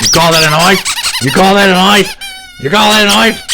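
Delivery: high, loud, rising yell; escalating shouted challenge. Acted. Challenging someone over a knife, in a high rising shout.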